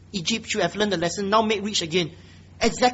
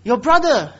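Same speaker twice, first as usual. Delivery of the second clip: pointed sarcasm, louder on the brother; sarcastic jab, building louder to the end; 3 semitones higher, 4 dB louder than usual. Acted. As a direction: needle her with mock compliance. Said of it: "Being given this kind of sarcasm".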